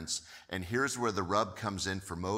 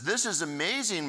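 amazed; 7 semitones higher than usual. Retold or imitated. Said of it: "Moses says to himself".

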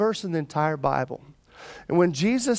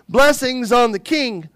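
raised, declaiming mild shout; crowd's shout, understated; 4 semitones higher, 3 dB louder than usual. Acted. Preacher voicing followers praising the King, mild shout. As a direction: proclaim it like a cheering follower, lightly. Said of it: "all of his followers began to shout".

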